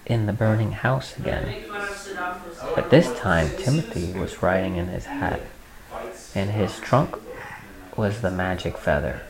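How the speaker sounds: unhurried read-aloud with pauses between phrases; storybook reading; story narration. A narrator's reading. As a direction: read a picture book to a small child.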